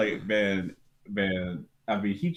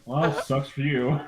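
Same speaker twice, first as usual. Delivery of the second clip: curt dismissal; 6 semitones higher, slower than usual. Retold or imitated. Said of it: "He's like".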